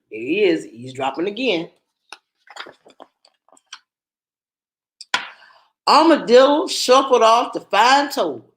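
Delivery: put-on lively storybook narration for kids; reading to children. A narrator's reading. Teacher reading a picture book aloud to children, lively storybook voice. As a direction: read the tale aloud to a class.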